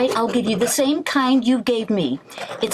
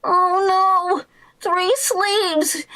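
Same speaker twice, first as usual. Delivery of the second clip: dismayed surprise; 7 semitones higher, much slower than usual. Acted. Discovers a third sleeve.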